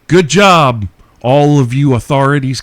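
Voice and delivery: loud sarcastic good job; sarcastic praise. Real, not acted. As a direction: praise them with a sneer.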